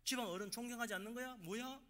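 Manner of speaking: acted high-pitched challenge; indignant elder. Family elder to disrespectful relative, indignant questioning.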